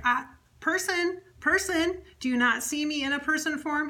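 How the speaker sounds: high, insistent comic correction; mock offence. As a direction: correct them as if slighted. Spirit objects to being called it.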